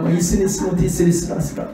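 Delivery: imitating babbling prayer in tongues; mock tongues prayer. Imitating a mother praying in tongues. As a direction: rattle off nonsense syllables like a tongues prayer. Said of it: "또 기도하잖아".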